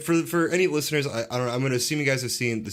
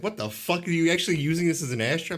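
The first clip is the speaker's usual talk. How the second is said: imitating a shocked visitor, higher pitched; retold incredulous question; 5 semitones higher than usual. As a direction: quote them in mild mock disbelief. Retelling an incredulous visitor's reaction.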